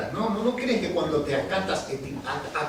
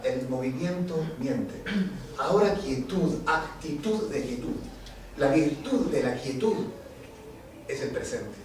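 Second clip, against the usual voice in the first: meditative poem recitation. Acted. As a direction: guide listeners gently into stillness. Poem invites stillness.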